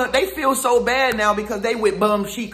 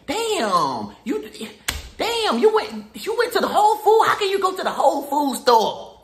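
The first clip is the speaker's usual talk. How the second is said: much higher, laughing mock outrage at your shopping; mock envious hater; 7 semitones higher than usual. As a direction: squeal fake indignation, pitched way up. Mocking hater's envy.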